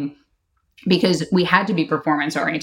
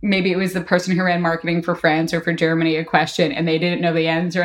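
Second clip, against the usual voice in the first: ordinary talk, nothing marked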